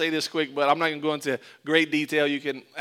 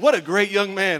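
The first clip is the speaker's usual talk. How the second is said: impressed adults; 4 semitones higher, 6 dB louder than usual. Retold or imitated. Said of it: "They're like".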